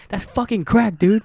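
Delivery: high, loud reenacted outrage; retold indignation. Telling off a man who calls crack cocaine, retold indignation. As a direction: re-enact scolding a friend in disbelief. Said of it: "I was so pissed at her".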